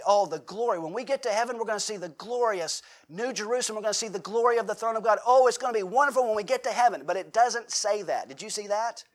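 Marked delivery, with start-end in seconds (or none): 0.0-7.0 higher, faster, rising delight at heaven; gushing commentators. Retold or imitated. Pastor mocks commentators with a higher, faster, gushing voice. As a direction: gush about heaven like an eager preacher. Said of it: "I was reading some commentators, they say".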